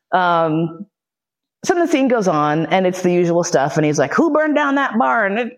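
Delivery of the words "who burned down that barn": high, slow, drawn-out demand; mock interrogator. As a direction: play the bully questioning a captive. Acted interrogator demanding an answer.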